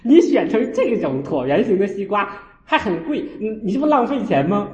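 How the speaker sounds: 1 retold scolding. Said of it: "我说".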